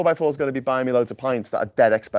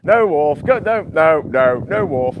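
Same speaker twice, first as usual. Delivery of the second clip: rapid-fire mock denials, starting louder; mock refusal; 3 semitones higher, 4 dB louder, slower than usual. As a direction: shut down an eager crewmate. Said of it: "it's Worf getting denied".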